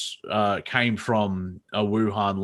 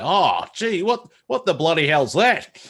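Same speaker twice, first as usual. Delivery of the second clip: high, louder exclamation of dismay; mock appalled reaction; 7 semitones higher, 5 dB louder than usual. Australian hearing own accent on American TV, mock appalled. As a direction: recoil loudly, hamming up the shock. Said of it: "I even react badly".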